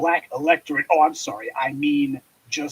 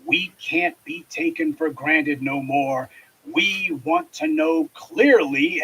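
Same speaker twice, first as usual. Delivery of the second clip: mock vague quote; slower than usual. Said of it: "vague chatter about".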